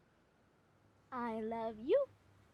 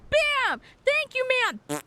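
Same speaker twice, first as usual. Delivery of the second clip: high, loud wham bam cheer; mock triumph; 8 semitones higher, 4 dB louder, slower than usual. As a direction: punch each word like a victory. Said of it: "to be like".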